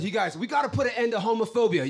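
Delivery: rally speech. Retold or imitated. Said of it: "I was like".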